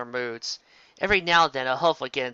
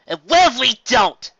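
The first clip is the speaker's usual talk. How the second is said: higher, louder defiant retort; defiant shout; 9 semitones higher, 10 dB louder than usual. A narrator's reading. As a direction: throw the challenge right back. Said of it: "Dash shouted back defiantly".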